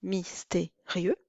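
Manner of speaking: mystérieux said slowly as mys-té-rieux; everyday mystérieux, slow; three syllables. Shown as a demonstration. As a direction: keep rieux in one syllable. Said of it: "trois syllabes".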